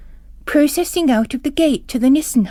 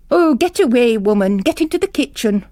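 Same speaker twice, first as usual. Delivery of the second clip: brusque dismissal; 2 semitones higher, 5 dB louder than usual. Acted. Bishop shooing Miss Dempsey to the kitchen, loud and brusque. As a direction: wave her off sharply. Bishop rebuffs kneeling housekeeper.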